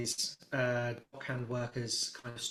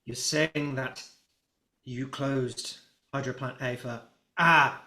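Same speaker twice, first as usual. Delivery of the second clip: angry dockmaster; 7 dB louder than usual. Acted. Dockmaster to Osric, rising into an angry shout. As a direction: accuse him harder and harder until you shout. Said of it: "and he goes".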